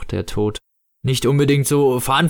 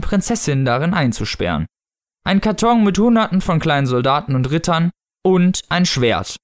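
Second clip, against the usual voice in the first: measured audiobook narrator; story narration; 3 semitones higher than usual. A narrator's reading. Narrator describing the odd costume, story narration. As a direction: read the tale aloud, clearly articulated. Reads novel excerpt aloud.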